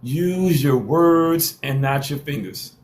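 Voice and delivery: slow, deliberate, every word weighted; slow and emphatic. Shown as a demonstration. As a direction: spell it out slowly like to a child. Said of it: "I say it again".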